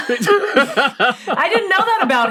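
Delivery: teasing through a laugh, slowed; mock-impressed, laughing; laughing tease. Real, not acted. Teasing the slip.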